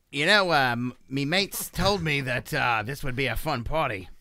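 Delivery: put-on Australian accent. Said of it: "Australian accent, please".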